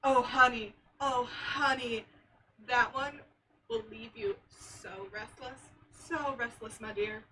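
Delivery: teasing hush. Acted. Character teasing about a racy book.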